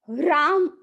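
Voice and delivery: राम said with a silent half ह, r full and a long आ. Shown as a demonstration. Teacher showing students the silent ह in the mantra. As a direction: say राम with the ह kept inside, slow. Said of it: "इस प्रकार हम इसका उच्चारण करते हैं".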